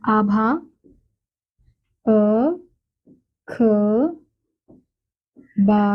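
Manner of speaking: slow sounding out of आभा and अखबार; syllable by syllable. Shown as a demonstration. Teacher to children, spelling out slowly. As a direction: split the words slowly. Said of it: "जैसे".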